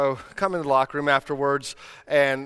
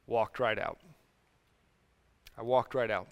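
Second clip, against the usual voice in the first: hushed; 4 semitones lower, 8 dB quieter than usual. Acted. Pastor admitting failure, dropped voice.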